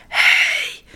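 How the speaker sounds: drawn-out voiceless whisper. A narrator's reading. Voiceless children trying to scare birds, whispering. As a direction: try to yell with no voice left. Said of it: "En ze fluisteren".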